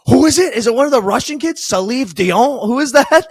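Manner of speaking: high, loud imitation of a startled question; mock-bewildered high-pitched outburst; retold sudden snap. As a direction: fire off urgent, baffled questions, mimicking your buddy. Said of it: "he just snaps and turns to me".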